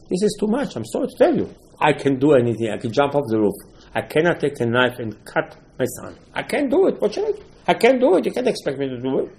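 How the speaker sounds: a father begging to be spared the test; pleading Avraham. Acted.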